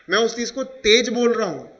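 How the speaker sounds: emphasis landing on तेज; stress on तेज. Shown as a demonstration. Teacher showing unspoken stress to students, stress on तेज. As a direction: make the word तेज stand out. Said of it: "मैं इस चीज़ पे stress दे रहा हूँ".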